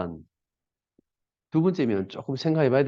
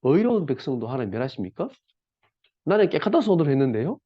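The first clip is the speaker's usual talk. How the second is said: mild protest. Retold or imitated. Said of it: "그때 했는 말입니다".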